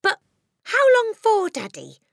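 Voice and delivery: put-on high, loud child's plea; distressed cry. A narrator's reading. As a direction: cry out, dropping away on Daddy. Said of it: "Matilda cried".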